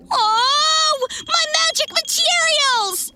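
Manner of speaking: high, alarmed wail; dismayed cry. Acted. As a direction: cry out at stolen things. Foxy sees his items taken.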